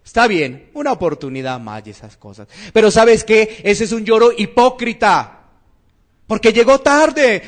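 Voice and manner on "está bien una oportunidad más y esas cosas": lower, softer voice of a boss giving in; mild acted sympathy, dropping low; relenting boss. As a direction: give in quietly, trailing into a quick dismissal. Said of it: "Se conduele".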